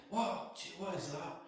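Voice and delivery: a sudden high startled what. Retold or imitated. Retelling a fright by the loch, startled. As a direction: jump at the sound, then ask it. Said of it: "I get such a fright".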